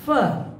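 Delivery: "firm" with closed er, no r. Shown as a demonstration. Teacher contrasting two words, "firm" with closed vowel. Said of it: "another is".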